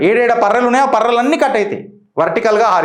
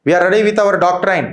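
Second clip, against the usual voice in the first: slow firm declaration; much slower than usual. Acted. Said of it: "Bharat clear కట్గా message ఇచ్చేసింది".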